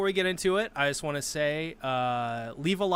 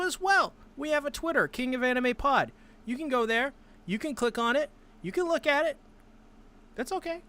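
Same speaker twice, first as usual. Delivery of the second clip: playful high voice; 9 semitones higher than usual. Acted. Playful high promo teasing.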